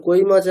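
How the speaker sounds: কই said short, as one quick glide; unclear diphthong. Shown as a demonstration. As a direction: clip the oi in কই. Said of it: "ঐকার স্পষ্ট হলো না". (ছোট করে অস্পষ্ট ঐকার)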